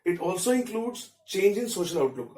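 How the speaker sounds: slow, even dictation pace; dictating notes. Shown as a demonstration. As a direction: read it out slowly so students can write. Teacher dictates notes in English. (धीमी गति से notes लिखवाना)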